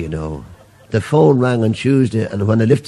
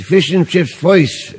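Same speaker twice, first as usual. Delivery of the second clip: slow ordering; 6 semitones higher, slower than usual. Acted.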